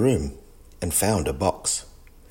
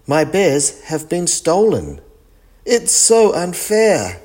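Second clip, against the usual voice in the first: higher, rising distress, slowing at the end; upset; 10 semitones higher, 4 dB louder than usual. Acted. Gran lamenting her stolen bears, upset and rising. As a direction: wail at the loss. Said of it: "Gran was upset".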